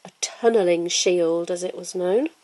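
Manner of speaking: usual speaking voice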